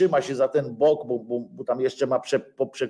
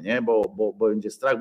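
usual speaking voice

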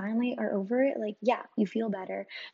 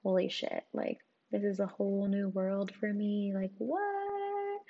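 stunned disbelief. Retold or imitated. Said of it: "And I was like".

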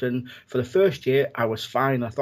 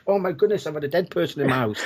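imitating family panic, much higher and a bit fast; mock freaked out; 3 semitones higher, faster than usual. Family hearing mum visited, mock panicked squeal. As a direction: mimic a horrified relative, pitched way up. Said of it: "And they freaked out".

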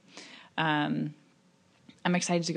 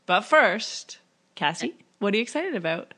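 radio host voice; 3 semitones higher than usual. Acted. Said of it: "Did I sound like a radio show?".

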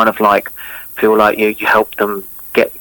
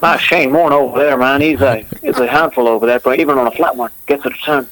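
matey Aussie cricket chat; Australian accent; 3 semitones higher than usual. Shown as a demonstration. Guest in Australian accent praising Shane Warne, Australian accent. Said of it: "What about an Australian accent?".

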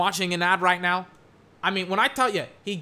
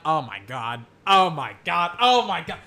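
amazed; 3 semitones lower than usual. Real, not acted. Amazed at the replay.

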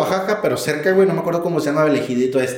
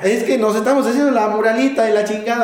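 put-on Puebla accent; 7 semitones higher than usual. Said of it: "Ellos tienen un acento medio distintivo".

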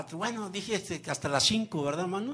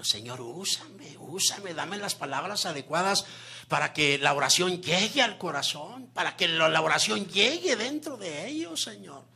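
retold prayer; 2 semitones higher than usual. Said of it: "me dejé caer en la oración".

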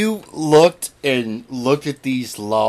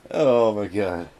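laughing through pain; 3 semitones lower than usual. Real, not acted. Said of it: "it hurts to laugh".

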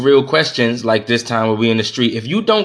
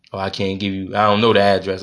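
mock innocent wife; 6 semitones lower than usual. Mocking wife's excuse about address.

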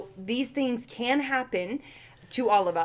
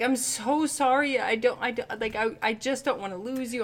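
pleading apology; 3 semitones higher than usual. Retold or imitated. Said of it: "And I'm like".

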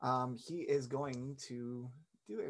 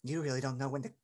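first try at the villain's voice; wrong character voice; 5 dB louder, much faster than usual. Acted. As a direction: voice not yet right for her. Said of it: "that's not her voice".

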